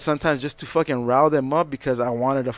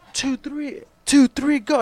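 pumped-up count-in; 11 semitones higher, slower than usual. Retold or imitated. Singer counts band into first song, pumped up. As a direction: count the band in, rising with excitement. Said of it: "I'm getting all pumped up".

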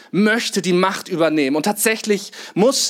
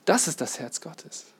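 hushed awe; 3 semitones lower, 10 dB quieter than usual. Acted. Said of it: "repeated softly".

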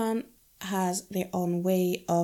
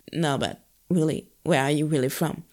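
quicker, lower probing question in mild mimicry; insistent questioner; 4 semitones lower than usual. New acquaintance presses her about her origins, lightly mimicked insistence. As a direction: lightly imitate someone pressing, pitch dropped. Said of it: "And they'll go".

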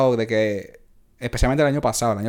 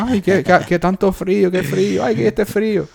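mock whining about the cold, higher; whiny complaining locals; 7 semitones higher than usual. Coworker mocking locals crying about the cold, high whiny voice. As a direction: whimper like a spoiled local. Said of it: "todo el mundo llorando aquí".

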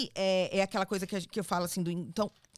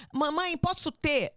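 filha imitada; 6 semitones higher, slower than usual. Retold or imitated. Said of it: "a minha filha até hoje fala".

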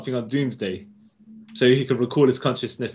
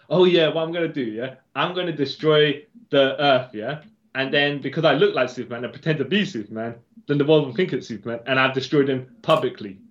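lightly voiced, gloating villain plan; a hint of a smug villain; scheming villain. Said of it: "His whole point is".

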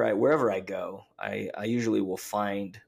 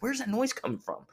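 feigned innocence. Retold or imitated. Dad feigns innocence to kids.

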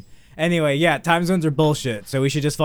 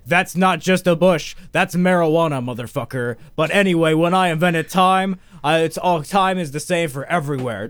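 God as a stoner; 3 semitones higher than usual. Retold or imitated. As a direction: preach it like a God who is baked and swearing. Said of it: "where he's like".

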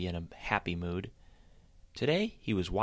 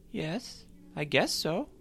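gloomy bunny agreeing half-heartedly; Sally; 9 semitones higher, slower than usual. A narrator's reading. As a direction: shrug it off sadly. Sally voiced in story.

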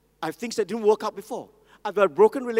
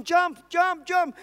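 higher, louder urging call; crowd shouting; 10 semitones higher, 5 dB louder, much slower than usual. Retold or imitated. Crowd below the burning building, loud urging shout. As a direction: shout up to the man on the ledge. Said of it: "People were shouting".

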